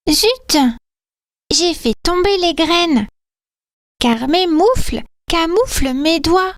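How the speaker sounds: high-voiced elf, mildly vexed; high little elf voice. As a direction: chirp it like a clumsy little elf. Character voice, dropped seeds.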